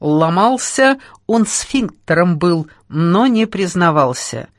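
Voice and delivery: slow, measured poetic chant; mock-solemn rhythmic recital; singsong declamation. A narrator's reading. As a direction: intone it like verse, stretching words. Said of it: "продекламировал он нараспев".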